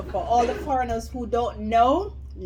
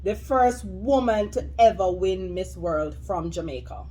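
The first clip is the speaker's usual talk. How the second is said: slow; 2 semitones lower than usual. Real, not acted. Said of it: "You, you listen to the question?".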